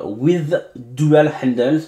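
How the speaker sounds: slow, careful English read with a French accent. Real, not acted. Reading an English box label to viewers, slow French-accented English. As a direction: spell out the English words slowly in a French accent. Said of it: "excusez-moi mon accent anglais".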